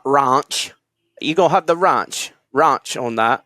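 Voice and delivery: mock Cockney. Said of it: "if you're Cockney, it'd be like".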